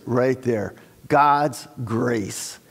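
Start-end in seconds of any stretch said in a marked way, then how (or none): 1.1-2.6 slow "God's grace" with "grace" pressed; stress on grace. Shown as a demonstration. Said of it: "I emphasize the word grace".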